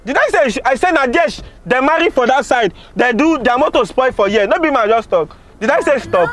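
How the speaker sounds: high, exasperated telling-off; annoyed scolding. Acted. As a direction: scold the driver for getting it wrong. Passenger scolds driver for stopping.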